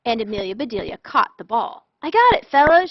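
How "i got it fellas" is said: loud triumphant call across the field. Acted. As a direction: call it out proudly to the team. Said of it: "she called".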